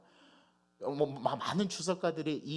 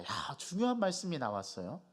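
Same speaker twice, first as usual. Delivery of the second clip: ordinary talk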